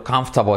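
"comfortable" reduced to "KAMF-ta-bol"; squashed COMFORTABLE. Shown as a demonstration. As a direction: squeeze "comfortable" into few syllables. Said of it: "como si fuera dos". ("comfortable" comprimido, "cámftabol")

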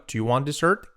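"do you want dessert" run together, rising; said quickly. Shown as a demonstration. Teacher showing fast speech, linked "do you want dessert". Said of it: "Dicho rápido, fijaos".

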